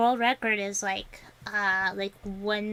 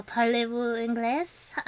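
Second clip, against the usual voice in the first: French phrase. Shown as a demonstration. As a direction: attempt at French, slow and careful. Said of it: "it would be like".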